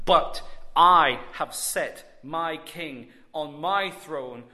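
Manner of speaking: God's declaration. Acted. Preacher voices God's declaration.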